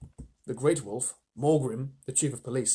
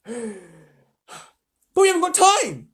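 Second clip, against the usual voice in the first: put-on urgent girl; 8 semitones higher, 9 dB louder, much slower than usual. Susan urging haste.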